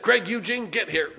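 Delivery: lightly voiced mom, name stretched up; mother using middle name. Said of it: "When she said".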